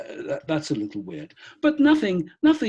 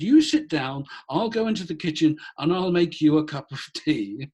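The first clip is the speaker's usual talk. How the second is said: woman's voice; 4 semitones higher than usual. Retold or imitated. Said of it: "She said".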